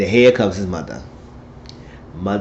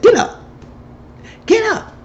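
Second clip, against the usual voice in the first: crazed screaming; slower than usual. Acted. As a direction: scream it over and over like a madwoman. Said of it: "Act like a crazy mad woman".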